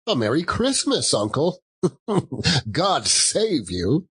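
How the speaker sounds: bright hearty hail to an uncle; cheerful greeting. Acted. Nephew bursts in greeting his uncle, hearty and high. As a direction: call out a merry Christmas wish.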